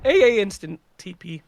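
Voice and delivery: hiccuping mid-sentence; talking through hiccups. Real, not acted. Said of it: "Sorry, got the hiccups all of a sudden".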